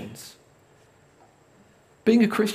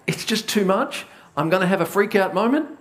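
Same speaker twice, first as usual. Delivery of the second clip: mock freak out; 2 semitones higher than usual. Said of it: "It's like".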